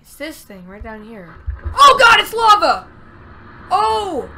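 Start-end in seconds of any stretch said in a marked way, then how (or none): 1.6-4.3 loud startled delight; real surprised exclamation; excited surprise. Real, not acted. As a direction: shout at the discovery. Surprise at finding lava.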